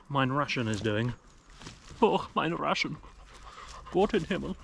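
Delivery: hammed-up mock German accent; terrible German accent. Camper jokes over his heating meal, terrible mock German accent. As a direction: put on a bad German accent for fun. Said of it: "that was a terrible accent".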